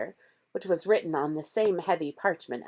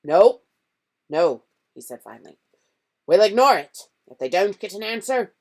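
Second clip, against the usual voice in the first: loud firm refusal; firm decision; 3 semitones higher, 10 dB louder than usual. A narrator's reading. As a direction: lay down the law. Uncle deciding.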